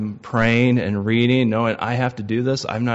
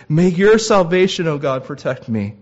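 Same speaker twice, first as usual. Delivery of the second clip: anguished plea; 4 semitones higher, 5 dB louder than usual. Acted. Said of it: "he says".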